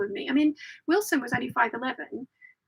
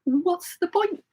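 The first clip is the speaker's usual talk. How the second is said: mock yell; 4 semitones higher, 3 dB louder than usual. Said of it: "the screaming as well".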